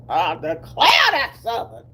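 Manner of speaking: playful put-on Southern accent; hammed-up Southern speech. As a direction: lightly mimic a Southern exclamation.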